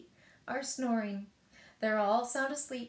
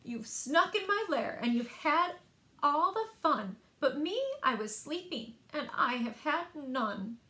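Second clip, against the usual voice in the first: louder, higher bear complaint; grumpy bear; 3 semitones higher, 3 dB louder than usual. Acted. Woken bear scolds the partying animals, grumpy and loud.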